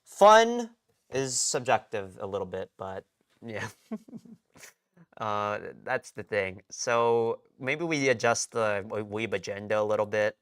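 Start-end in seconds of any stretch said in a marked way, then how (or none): 3.7-4.3 laugh. Real, not acted. Laughs after trailing-off remark.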